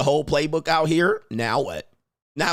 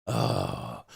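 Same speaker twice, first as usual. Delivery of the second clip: much lower, much softer unimpressed groan; deep bored groan; 10 semitones lower, 7 dB quieter, much slower than usual. Retold or imitated. A man shrugging off insults, low and bored. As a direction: drop way down and sound totally unbothered. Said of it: "They just be like".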